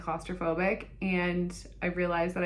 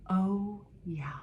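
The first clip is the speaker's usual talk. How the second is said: breathy mock whisper; whispered echo; 3 dB quieter than usual. Patient echoing nurse's answer about lead, whispered. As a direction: whisper it slowly to yourself.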